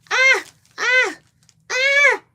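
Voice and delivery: very high, loud laughing squeal. Real, not acted.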